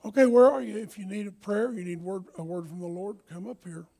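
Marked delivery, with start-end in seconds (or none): 0.0-0.8 yelling across the room. Real, not acted. Pastor calls out to the congregation.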